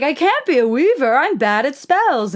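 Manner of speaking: mock-pitiful protagonist; whiny Diana. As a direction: whine like a helpless heroine. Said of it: "But she's like".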